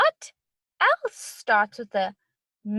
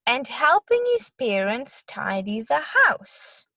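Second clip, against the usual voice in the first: put-on reading to children. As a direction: read it to little kids. Reads story to children.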